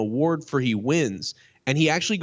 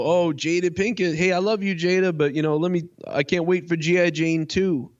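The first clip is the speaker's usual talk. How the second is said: imitating Chris Rock; 6 semitones higher than usual. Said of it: "so Chris Rock says".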